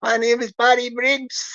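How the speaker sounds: lightly put-on Louisiana twang; Louisiana accent. Scammer retrying his introduction, mild Louisiana accent. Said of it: "speak with his American Louisiana accent".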